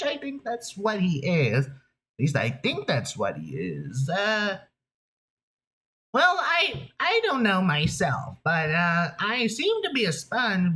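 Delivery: high, wacky cartoon sponge; chatty high-pitched nasally toon voice; SpongeBob. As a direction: keep up a high, nerdy cartoon voice. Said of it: "I'm SpongeBob!".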